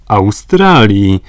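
slow, loud cry of Australii; exclaimed. A narrator's reading. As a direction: call out the name in alarm. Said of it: "zawołał Glenarvan".

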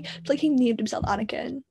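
hushed unvoiced aside; whispered mock disbelief at the name. Shown as a demonstration. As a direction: drop to a secret whisper. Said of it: "repeats the line in a whisper".

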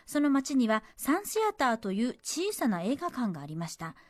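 measured story-reading delivery; letter reading. Acted. Radio host reading a cinema memory to listeners, narrated. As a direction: read the letter out as a tidy narrative.

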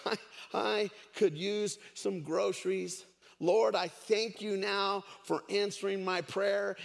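acted old lady's porch prayer; lightly voiced woman praying aloud; praying out loud. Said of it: "prayed out loud like she normally did".

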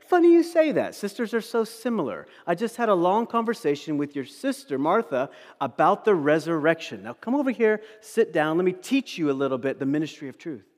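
loud, high-pitched opening settling into a brisk lecture; hammed-up know-it-all cheer; mock chirpy lecturing. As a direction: act out a tactlessly upbeat teacher, loudly. Mock Jesus lecturing a grieving sister.

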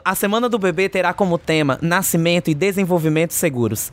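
ordinary talk, nothing marked

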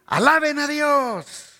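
high, slow joyful call; drawn-out exultant acclaim; crowd praise. Retold or imitated. Crowd praising Jesus in procession.

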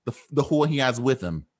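mock Jersey accent, vowels exaggerated; New Jersey accent. Two friends trading insults for laughs, New Jersey accent. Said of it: "New Jersey".

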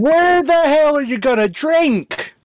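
slow, drawn-out indignation; indignant question. Acted. Player protesting to the dwarf, slow mock outrage.

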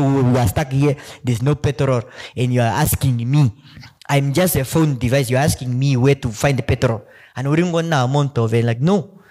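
lightly imitated local Namibian accent; mock Wambo-accented Siri. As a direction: scold the driver in a township accent. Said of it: "Siri will respond to you like".

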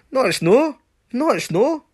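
squeaky indignant "no"; shrill outraged refusal; high-pitched exasperated denial. Real, not acted.

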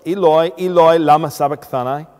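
high, loud cry of anguish from scripture. Acted. Preacher reading Jesus' words on the cross, loud cry. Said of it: "cried out in a loud voice".

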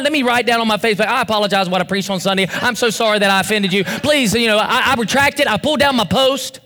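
lightly mocked hurried apology; mock-contrite, rushed backtracking; apologetic people-pleaser. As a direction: rattle off a grovelling apology, quickly. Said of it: "And you think".

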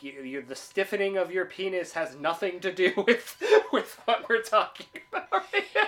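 high, loud mock retort through laughter; laughing imitation of a firm telling-off; laughing quote. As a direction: quote the rebuke while cracking up.

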